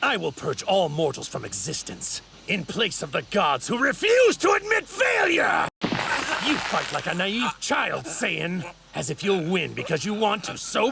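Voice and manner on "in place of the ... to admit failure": high, fervent shout at the climax of a tirade; outraged villain shout. Acted. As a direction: cry out in righteous fury. Villain's speech peaks in outrage.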